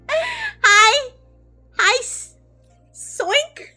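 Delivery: high, loud, bright hello; excited greeting. Real, not acted. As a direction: greet them with big excitement.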